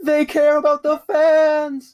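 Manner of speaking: very high, slow mock cheer; hammed-up fan excitement. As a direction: squeal it out slowly like a hyped fan. Mock announcer hyping the crowd.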